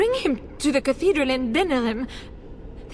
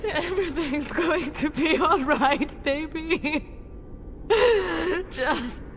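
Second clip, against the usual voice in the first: tender soothing; 3 semitones higher than usual. Acted. Mother soothing dying son.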